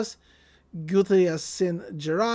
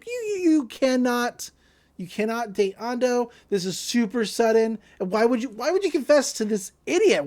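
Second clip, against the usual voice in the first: sputtering, slightly raised pitch; flustered protest; 4 semitones higher than usual. Retold or imitated. Girl jumping in against the confession, flustered. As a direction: stammer out a mock objection. Acted objection to sudden confession.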